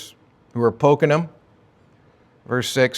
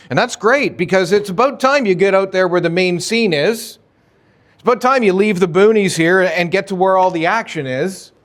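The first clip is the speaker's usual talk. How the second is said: higher, mock-eager taunting brothers; taunting dare; 4 semitones higher than usual. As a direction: bait him into proving himself. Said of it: "A, a bit of a taunt".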